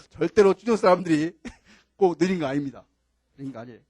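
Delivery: chuckling through a denial; amused, laughing defensiveness; laughing protest. Real, not acted. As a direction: insist it with laughs breaking in. Lecturer defends his home province, laughing.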